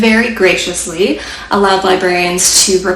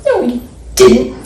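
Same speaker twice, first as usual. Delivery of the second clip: snapping; 4 semitones higher than usual. Acted. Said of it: "snapped Sam".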